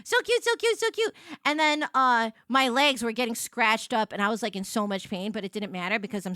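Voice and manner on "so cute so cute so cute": cute overload. Real, not acted.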